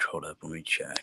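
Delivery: soft unvoiced whisper. Real, not acted. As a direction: whisper it under your breath. Checking quietly mid-call.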